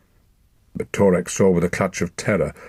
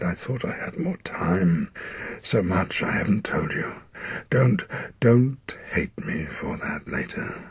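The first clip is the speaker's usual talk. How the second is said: regretful whisper. Acted. Dying father's regret.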